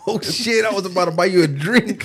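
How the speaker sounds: retold startled guy. Guy who nearly bought her a drink, mock startled. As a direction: react as if caught off guard.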